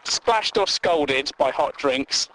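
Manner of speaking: slow, disbelieving reread of the phrase; slow incredulous reread. Shown as a demonstration. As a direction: drag it out as if you can't believe it. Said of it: "Or, right, okay".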